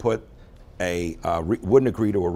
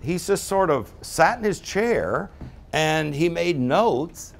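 complaining client; 4 semitones higher, slower than usual. Retold or imitated. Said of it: "She said".

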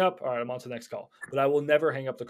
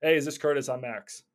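right opener. Shown as a demonstration. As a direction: open by greeting him by name. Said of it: "That's what works for me".

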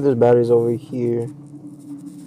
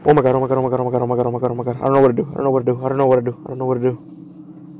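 panicked repeating; much faster than usual. Real, not acted. Panicking after scare.

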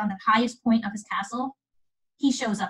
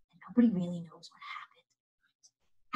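hushed storyteller's whisper; whispered mystery ending; mysterious whisper; 5 semitones lower, 6 dB quieter than usual. A narrator's reading. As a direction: breathe it like a secret. Mysterious ending of fairy tale.

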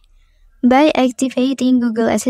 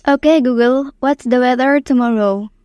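talking to voice assistant. Shown as a demonstration. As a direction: clear command to the phone. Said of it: "say the example text".

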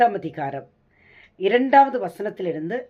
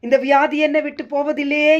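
tearful lament; 6 semitones higher, 4 dB louder than usual. Acted. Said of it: "என்று சொல்லி கண்கரங்கிறாயா?".

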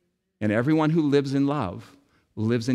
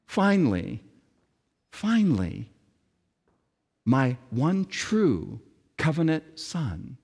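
tender voice of God; 2 semitones lower than usual. Acted. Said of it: "God looks at Jesus and says".

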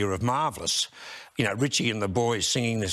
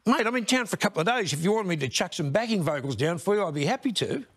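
light, faster imitation of a singer; a hint of his friendly offer; imitating a singer; 5 semitones higher, faster than usual. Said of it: "then says to me".

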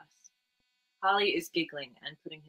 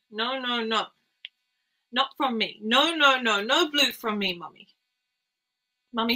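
high, loud, frantic no no no; desperate crying child; 5 semitones higher, 6 dB louder than usual. Acted. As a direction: beg mother it isn't her fault. Child begs mother, breathless panic.

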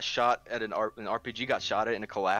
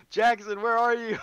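loud, high alarmed shout; 10 semitones higher, 4 dB louder than usual. Real, not acted. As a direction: yell it over gunfire. Calling out for teammate under fire.

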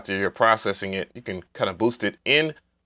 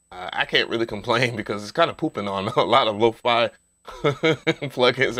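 chuckling through the words; laughing. Real, not acted. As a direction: laugh while you say it. Joking that free plugin beats paid.

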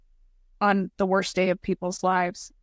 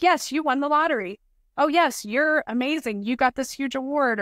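higher, bright gushing reporter tone; mock cheerful news; 4 semitones higher than usual. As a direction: gush like a feel-good news segment. Mocking the happy news stories.

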